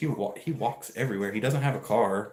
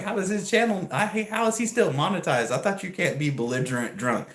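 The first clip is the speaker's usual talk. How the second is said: higher, louder incredulous questioning; 9 semitones higher, 5 dB louder than usual. Retold or imitated. Wondering how the drunk streamer stays monetized, incredulous. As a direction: sound baffled and indignant. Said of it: "I'm like".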